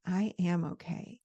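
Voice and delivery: calm yourself as you say it; the right way, slow and gentle. Shown as a demonstration. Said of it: "bring it down slower and say".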